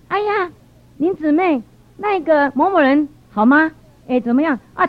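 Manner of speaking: lightly voiced, slow-spoken elder; a hint of a chatty elderly woman; elderly church lady. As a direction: imitate an old auntie's drawn-out inquiry. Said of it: "那老人家很好啊，是一个，一个长辈啊".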